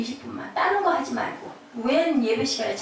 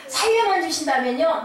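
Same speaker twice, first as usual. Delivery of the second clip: higher, earnest bargaining; acted pleading; 5 semitones higher, 4 dB louder than usual. Parent bargaining for the child's life, higher earnest plea. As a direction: plead for a deal, pitched up.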